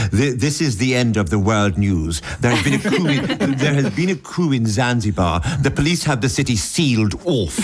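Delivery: mock English newsreader, authoritative; English accent. Shown as a demonstration. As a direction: read it like a very English news bulletin. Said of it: "I want to do this in an English accent".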